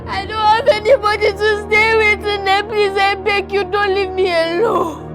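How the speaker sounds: loud crying, pleading through tears; sobbing plea. Acted. Orphaned child sobbing to grandmother, crying plea. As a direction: sob it out, begging her not to leave.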